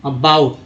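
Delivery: अबाउट with an open "ow" glide. Shown as a demonstration. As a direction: say अबाउट with "aa" opening the second syllable. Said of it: "अबाउट में ओ का उच्चारण दोस्तों आ होता है".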